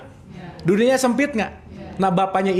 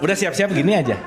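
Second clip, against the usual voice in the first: usual speaking voice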